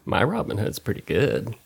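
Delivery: low, put-on Southern accent. Podcaster chatting about stocks, sudden Southern accent. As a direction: slip into a casual Southern accent. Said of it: "doing the Southern accent all of a sudden".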